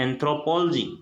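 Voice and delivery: एंथ्रोपोलॉजी as "anthro-POL-ogy", stress on "pol"; correct pronunciation. Shown as a demonstration. Teacher giving the correct "anthro-POL-ogy". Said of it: "सही pronunciation है वो होता है".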